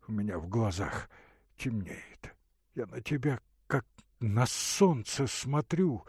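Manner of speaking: put-on a sick young man answering weakly; Ordynov's voice. Ordynov pleading, feverish.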